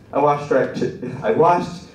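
real laugh interrupting the punchline; breaking into laughter. Real, not acted. Comic fumbling the friend's punchline, breaking into laughter. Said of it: "I really broke the punchline".

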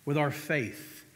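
With our faith slowly weighted, stress on our; slow emphatic repeat. Shown as a demonstration. Preacher repeating the key phrase to the congregation, slow and weighted. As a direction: lean on our, slow and deliberate. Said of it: "repeats the phrase slowly".

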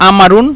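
আমারুন begun on a bare vowel, no q; teacher's dialect demo of আমারুন with a silent q; dialect pronunciation. Shown as a demonstration. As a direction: drop the opening q in আমারুন. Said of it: "উচ্চারণের ক্ষেত্রে বা কথা বলার ক্ষেত্রে এটা".

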